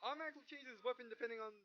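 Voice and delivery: hammed-up anime pilot, punchy and loud in the fights; dramatic hero narration. Gamer voicing his pilot through a close mech duel, hammed-up. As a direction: play the frantic mech pilot mid-duel.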